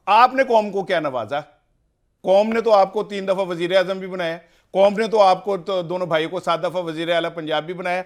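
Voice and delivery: heated, emphatic listing; angry. Real, not acted. Guest angrily listing what the nation gave its leader, indignant. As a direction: press each item home with real indignation. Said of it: "ابھی ذرا غصہ اپنا side پہ رکھیں".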